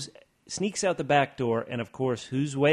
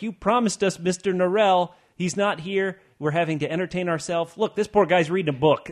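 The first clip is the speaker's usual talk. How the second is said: louder, higher annoyed journalist; mock pissed-off rant; 4 semitones higher, 4 dB louder than usual. Journalist griping to Drawlight about missing Norrell, mock angry. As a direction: act out a fed-up journalist complaining. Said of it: "LaSalle's is pissed off".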